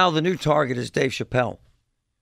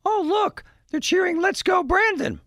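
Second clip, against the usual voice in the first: reporter voice. Retold or imitated. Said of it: "she says to the audience on camera".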